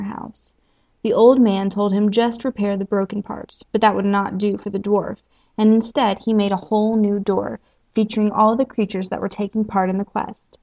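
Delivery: calm storybook reading; story narration. A narrator's reading. Host reading the quest story to listeners, calm narration. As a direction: tell the tale gently to the listeners.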